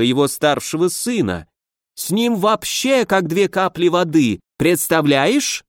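a hint of a tipsy German student gushing; tipsy German baron. Tipsy baron praises his duke.

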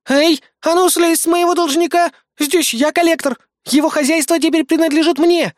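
a shrill, loud, high indignant protest; high shouted possessive outrage. A narrator's reading. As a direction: stake a loud claim on the debtor. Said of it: "запротестовала Бисмарк".

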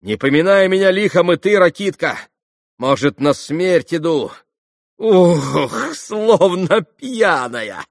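high, loud, giddy excitement; intoxicated, reckless exclamation; feverish farewell. A narrator's reading. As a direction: call it out, slowing dizzily at the end.

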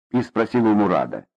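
usual speaking voice

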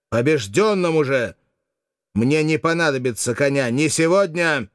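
defiant high exclamation; exclaiming. Acted. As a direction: cry it out in defiance. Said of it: "воскликнул".

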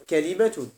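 كلمة said ka-li-ma, all three syllables open; كلمة as ka-li-ma, first of three forms; kalima form. Shown as a demonstration. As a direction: pronounce كلمة as kalima, fatha then kasra. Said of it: "يجوز الفقيه نقول".

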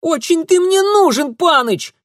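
high, loud scornful shout; shouted retort. A narrator's reading. Darinka yelling scornfully at the young master. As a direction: yell it back defiantly. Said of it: "выкрикнула девчонка".

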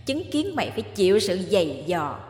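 a cold, taunting ghost woman, lightly voiced; vengeful ghost. Ghost Lý taunting Mạnh over his suffering, lightly voiced. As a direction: savour every word of his pain.

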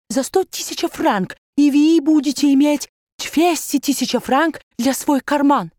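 put-on German-accented banker courting; baron's German accent. (высокий голос барона с немецким акцентом)

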